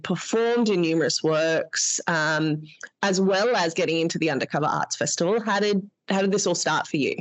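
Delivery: underwater. Real, not acted. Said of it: "it sounds like I'm underwater".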